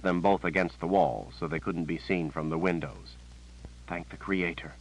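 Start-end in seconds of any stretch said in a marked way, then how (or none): 3.9-4.7 sighed relief. A narrator's reading. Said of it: "Verna said with a sigh".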